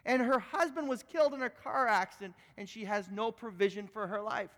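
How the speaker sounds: angry lawyer. Retold or imitated. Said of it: "He said".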